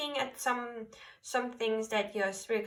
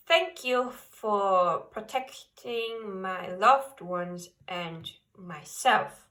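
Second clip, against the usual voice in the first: reciting a prayer; slower than usual. Shown as a demonstration. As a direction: recite it slowly like a sincere prayer to the angels. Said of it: "you can say this prayer".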